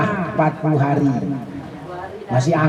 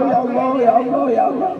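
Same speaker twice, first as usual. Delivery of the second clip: mock whining plea; 11 semitones higher than usual. Shown as a demonstration. Preacher shows whining to Allah is allowed, high mock whimper. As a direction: whine it repeatedly like a pleading child. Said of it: "boleh ngerengek sama Allah".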